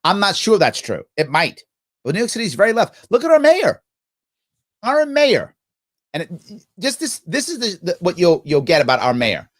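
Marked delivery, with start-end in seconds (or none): 3.1-5.6 mocking emphasis. Real, not acted. Mocking their own mayor.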